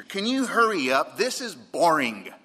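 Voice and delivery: put-on loud, high complaint from a kid; boy yelling. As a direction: imitate a bored boy calling out mid-sermon. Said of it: "he yells at the preacher".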